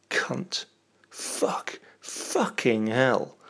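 breathy whisper of filthy words; hushed naughty whisper. Pretend. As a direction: whisper them like a secret. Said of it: "whispered dirty word list".

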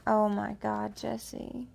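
moaning the name. Shown as a demonstration. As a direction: moan Oh my God, Jesse. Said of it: "And go ahead and moan".

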